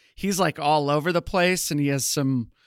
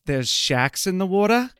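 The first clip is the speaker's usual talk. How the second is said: light Australian accent, higher pitched; 4 semitones higher than usual. Shown as a demonstration. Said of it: "do an Australian accent".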